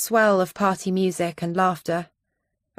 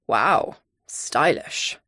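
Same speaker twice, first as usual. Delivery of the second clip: Character voice; 4 semitones lower, much slower than usual. A narrator's reading.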